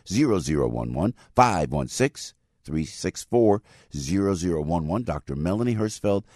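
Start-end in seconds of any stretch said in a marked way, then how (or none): 1.3-5.0 slow down on each digit; slow, spelled-out number. Shown as a demonstration. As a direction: let listeners write it down, digit by digit. Repeats phone number for listeners.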